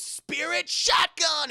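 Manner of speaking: slow, loud, high shouted attack name; attack call. Retold or imitated. Yusuke firing his attack, slow loud shout. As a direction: call out the move slowly.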